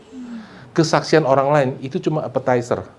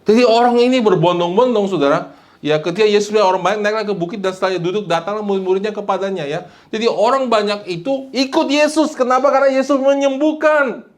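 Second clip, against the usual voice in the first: high, rising pulpit delivery; high, insistent sermon storytelling; impassioned preaching; 7 semitones higher than usual. Real, not acted. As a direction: build the point in a raised preacher's voice. Preaches with raised voice.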